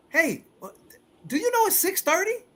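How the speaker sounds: high, indignant wife's voice; imitating the wife. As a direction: voice the wife, woken and annoyed. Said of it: "the wife is like".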